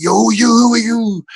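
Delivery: loud, high mock confrontation; feisty challenge. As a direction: imitate rough dudes squaring up. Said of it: "they were getting quite feisty".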